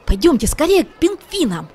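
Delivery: can't wait another second; excited exclaim. A narrator's reading. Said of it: "воскликнул Шмяк". (нетерпеливо, выше и громче)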